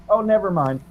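high-pitched mock call-back; mock yell back. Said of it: "then I yell back".

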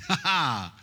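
hearty laugh at his own joke; loud laugh. Real, not acted. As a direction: burst out laughing. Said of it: "laughing at himself".

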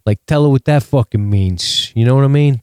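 lightly voiced mob boss; hint of a gangster giving orders; mock crime-boss menace. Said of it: "acting like fucking a crime boss".

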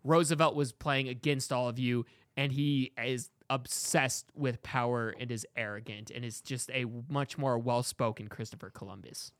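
lightly voiced Caesar pleading to the voters; a hint of a solemn Caesar. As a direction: plead your case gravely, like a fallen emperor. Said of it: "I would say his argument is he's like".

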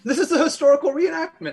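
laughing while talking. Real, not acted. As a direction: giggle out the line. Table laughing at the joke.

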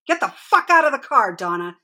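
high-pitched yell, fading at the name. A narrator's reading. Mother yelling at Donna to get out of the car, high yell. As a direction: hurl it at her daughter, then drop off. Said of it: "she yelled".

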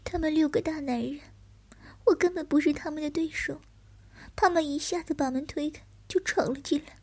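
put-on frightened young man.

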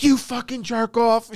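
hammed-up scolding mother; mock angry mom. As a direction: drag the insult out in a high mom voice. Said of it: "she's like".

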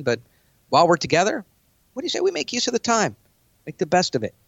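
friendly, relaxed version of the same pitch; easygoing tone. Shown as a demonstration. To the same client, a friendly, easygoing version of the pitch. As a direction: soften it so it's easy to hear. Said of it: "more easy to listen to tone".

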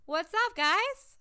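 high rising hello, loud at the end; excited greeting. Real, not acted. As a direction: hail the listeners with a big cheer. Greeting listeners abroad.

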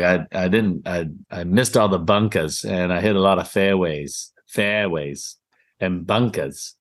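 imitating a friend's New England accent on local news; a mild mock New England accent, low and dropped. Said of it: "New England accent".

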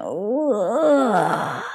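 straining groan mid-stretch; strained yawn groan. Shown as a demonstration. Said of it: "There's a kinda".

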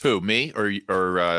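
faint, low mic level; quiet and distant; barely audible. Real, not acted. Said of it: "It's like you turn your mic volume down".

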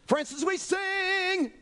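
high, slow, put-on voice; mock temple know-it-all. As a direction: play the smug objector correcting Jesus. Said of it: "I'd go up to Jesus and say".

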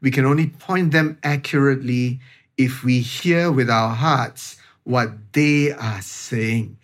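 slow, measured phrase, "point" carefully placed; deliberate emphasis. Real, not acted. Speaker advising parents to listen, slow and deliberate on "point". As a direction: spell it out slowly, leaning on "point". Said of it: "I'm using the word very deliberately".

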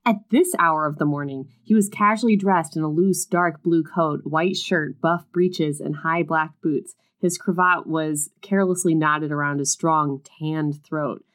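reading a romance novel aloud; story reading. A narrator's reading. Reading a book passage aloud to her co-host, story narration. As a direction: narrate the scene, lightly dramatic.

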